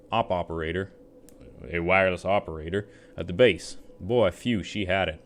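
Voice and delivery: put-on slurring, boozy old soldier; rummy drunk soldier voice. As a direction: tell it like a sad drunk veteran. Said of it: "rummy drunk soldier voice".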